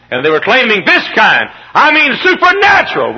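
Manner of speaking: high, loud pulpit cry; preacher raising his voice to the crowd; fervent preaching. Real, not acted. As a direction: press the point with fire. Preaching rises again.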